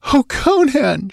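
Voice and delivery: high, tearful woman's cry; a high, grieving cry for the wounded man; sobbing. Acted. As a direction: sob out his name in a high pitched voice. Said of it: "she sobbed".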